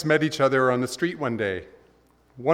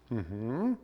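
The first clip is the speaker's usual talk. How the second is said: patient God; 7 dB quieter than usual. Retold or imitated.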